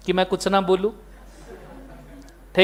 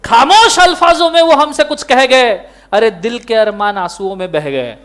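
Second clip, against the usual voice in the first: shayari recital. Shown as a demonstration. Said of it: "बोलो इरशाद".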